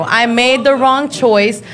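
"I made the wrong choice" said slowly with each word weighed; slow it right down and own it; deliberate, emphatic repeat; slow, deliberate admission. Shown as a demonstration.

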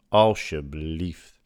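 very slow, drawn-out please; exasperated plea. Real, not acted. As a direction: stretch it out, pleading and fed up.

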